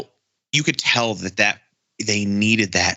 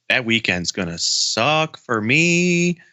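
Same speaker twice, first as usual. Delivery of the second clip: slow, stretched-out lament; drawn-out dismay; 3 semitones higher, slower than usual. Real, not acted. Fan realizing the weekend clashes with work, drawn-out dismay. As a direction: drag it out, rising on the end. Groaning about working that weekend.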